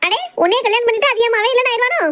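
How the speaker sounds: high-pitched quarrelling mother-in-law; high, outraged comeback without added volume; indignant scolding. Acted. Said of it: "சத்தம் போடாதக்கா".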